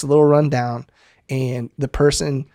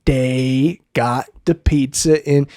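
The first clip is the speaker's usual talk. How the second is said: put-on slow Cajun accent; much slower than usual. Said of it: "He goes".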